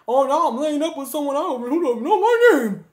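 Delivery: high, loud hammed-up whine; mock someone making a big dramatic fuss; over-the-top put-on lament; mock wailing. Mocking acted complaint about names.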